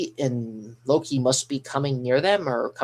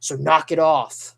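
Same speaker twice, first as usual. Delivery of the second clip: louder, slow acted scolding; firm, stretched-out telling-off; Nami; 5 dB louder than usual. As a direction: drag out the mock order to quit it. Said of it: "I'm gonna say it just like she's saying".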